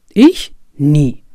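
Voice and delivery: startled denial. Acted. Kafka answers Hoffmann's question with startled surprise. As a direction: recoil at the very idea.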